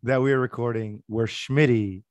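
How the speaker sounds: hoarse, nearly gone voice; lost voice. Real, not acted. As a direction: speak through a lost, hoarse voice. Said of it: "I have no voice yet again".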